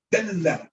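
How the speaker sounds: Dalla with the L held long; doubled L. Shown as a demonstration. Teacher showing the shadda, long-L Dalla. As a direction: hold the L in Dalla before releasing. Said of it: "you're gonna say both of them".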